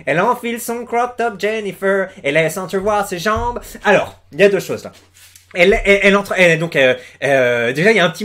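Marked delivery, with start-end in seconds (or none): 0.1-3.6 put-on accent américain chantonnant, plus aigu; récite les paroles façon country, léger accent américain. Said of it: "Il parle comme ça avec l'accent américain". (imitation légère d'accent américain)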